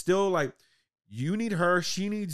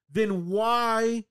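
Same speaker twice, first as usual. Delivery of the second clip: exasperated question; 5 semitones higher, 3 dB louder, slower than usual. Retold or imitated. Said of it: "Everyone's like".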